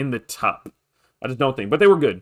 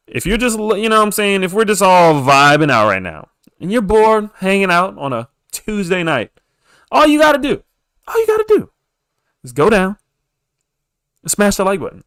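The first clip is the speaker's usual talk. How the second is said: smooth jazz voice; 5 semitones higher, 4 dB louder than usual. Acted. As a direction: croon it into the mic, stretched out and loud. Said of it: "let me do my smooth jazz voice".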